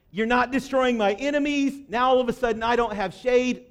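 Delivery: mock-aggrieved prophet venting; acted complaint. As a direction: complain as if badly wronged. Jonah complaining to God, acted.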